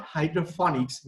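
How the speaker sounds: "hydroponics" said as hydro-phonics; the common slip, "hydroponics" as hydro-FON-iks; mispronounced hydroponics. Shown as a demonstration. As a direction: say "hydroponics" with an f sound for the p. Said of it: "Many people pronounce it as hydroponics".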